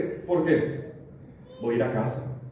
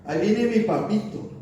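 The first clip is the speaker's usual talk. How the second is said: put-on higher, happy child calling for daddy; little kids' voice; 6 semitones higher than usual. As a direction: imitate small children welcoming dad home. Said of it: "oía la voz de mis hijos chiquititos". (voz de niños chiquitos, contentos)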